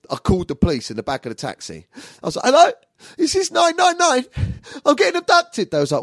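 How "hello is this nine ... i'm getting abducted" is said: high, loud plea to the operator; hammed-up frightened caller; panicked emergency call. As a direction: call for help in a squealing panic.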